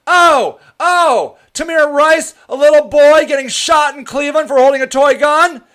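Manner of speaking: mock outraged shout. Ranting at online voters, mock outraged shout. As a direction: yell it like the fake-outraged crowd.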